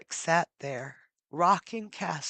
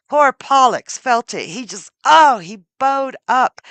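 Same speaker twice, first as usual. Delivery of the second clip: anguished narration; 5 semitones higher, 13 dB louder than usual. A narrator's reading. Brother feels the lance hit.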